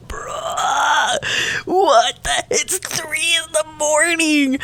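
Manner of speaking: exasperated outburst. Retold or imitated. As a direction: throw up your hands in outrage. Yelling match at 3 am.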